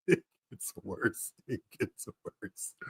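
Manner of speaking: very soft, trailing away; hushed disbelief. Real, not acted. Stunned by worse picture, weak with laughter.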